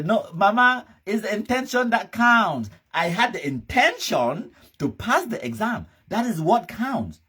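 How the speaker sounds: high-pitched mock child's excuse; put-on high voice of a protesting child; mimicked whining child. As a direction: plead to mama in a mocking high voice. Mimics failed child excusing to mother.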